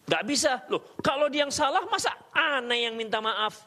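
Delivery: preacher mimics a proud wife refusing to apologise, mock indignant. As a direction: play the wife who won't back down, half laughing.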